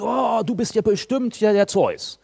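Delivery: high, drawn-out worshipful gasp of recognition; slow, awestruck crowd voice; mock awe. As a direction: hail him as a god, hammed-up. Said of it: "verehren sie ihn wie Götter".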